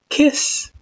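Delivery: high, teasing whisper; playful whisper. A narrator's reading. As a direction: whisper it mischievously. Playful tease.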